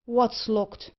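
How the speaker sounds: dismay. Acted. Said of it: "cried Thorneycroft in dismay".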